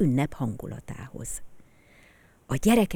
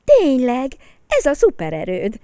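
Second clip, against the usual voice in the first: louder, higher, keen yes; eager agreement; 8 semitones higher, 10 dB louder than usual. Acted. Dávid agreeing with Peti, louder and eager. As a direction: agree with gusto. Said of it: "helyeselt Dávid".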